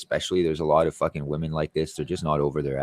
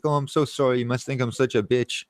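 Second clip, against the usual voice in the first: higher, sing-song mock apology; mock apologetic girl; 6 semitones higher than usual. Quoting the girl apologizing before driving to Gaspé, mock sweet. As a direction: imitate her breezy sorry, a little higher.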